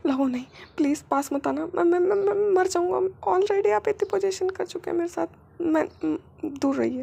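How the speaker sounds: put-on high, pained pleading young man; Wing's pleading voice. Wing begging his husband to stop, high and pained.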